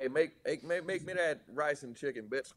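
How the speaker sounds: put-on Guy Fieri as old Southern colonial dude. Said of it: "just talking like an old Southern colonial dude".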